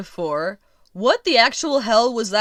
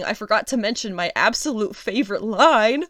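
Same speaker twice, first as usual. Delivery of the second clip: dry mock enthusiasm for a line she hates; sarcastic, pretending to love it; 3 semitones higher than usual. Real, not acted. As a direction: fake praise, tongue in cheek. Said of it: "I'm being sarcastic".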